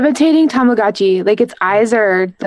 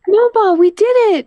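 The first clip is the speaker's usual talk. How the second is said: high, tearful little robot; sad robot voice; 11 semitones higher than usual. Acted. Quoting the robot's last words.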